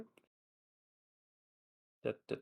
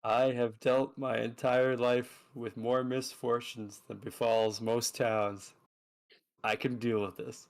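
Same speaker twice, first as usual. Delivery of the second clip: weary dramatic innkeeper; slower than usual. Acted.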